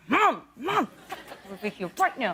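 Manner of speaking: imitating a hissed aside to mom; urgent hiss. Daughter trying to get mom's attention front row, hissed. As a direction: hiss for her attention, retold. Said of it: "hissing at her".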